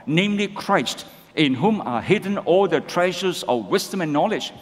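scripture read together with the congregation; measured group reading of the verse; read-along. Shown as a demonstration. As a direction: read it steadily, in step with everyone. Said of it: "Let's read together".

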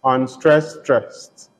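'unstressed' light and rising, 'stressed' dropped and firm; iambic pattern. Shown as a demonstration. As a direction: show the iamb in two words. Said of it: "the pattern of stress distribution is".

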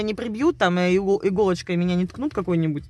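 ordinary talk

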